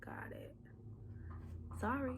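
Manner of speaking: very quiet, halting mock apology; acted chastened near-whisper; sheepish realization. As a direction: mumble it small, with long pauses. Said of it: "then you have to think".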